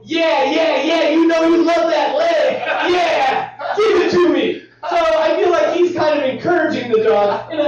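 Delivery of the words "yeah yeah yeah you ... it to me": Ryan cheering the dog on. Retold or imitated. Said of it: "would embrace it and go".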